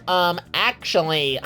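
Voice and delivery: slow, nasal-free know-it-all "um, actually"; nerd voice. Retold or imitated. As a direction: play the correcting nerd. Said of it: "nerd voice".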